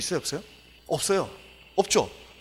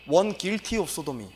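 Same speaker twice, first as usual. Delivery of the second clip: slow dictionary reading; much slower than usual. Shown as a demonstration. Rereads definition slowly.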